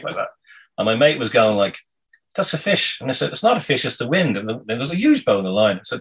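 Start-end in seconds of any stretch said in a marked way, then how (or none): 2.4-3.0 excited insistence. Retold or imitated. Friend insisting fish on line. 3.3-4.4 excited denial. Retold or imitated. Arguing with friend about bite.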